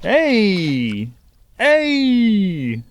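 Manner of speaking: high, loud cheer; cheering shout. Real, not acted. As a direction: holler it out. Cheering the catch.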